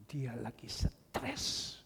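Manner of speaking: hushed unvoiced whisper, slow. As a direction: breathe it out as a secret. Preacher drops to whisper then shouts. (berbisik pelan)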